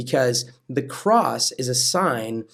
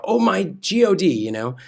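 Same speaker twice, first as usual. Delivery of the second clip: mock cry; 5 semitones higher, 3 dB louder than usual. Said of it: "cried out".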